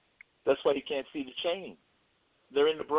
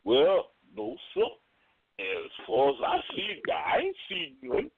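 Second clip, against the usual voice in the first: Damon's reply. Retold or imitated. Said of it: "And Damon go".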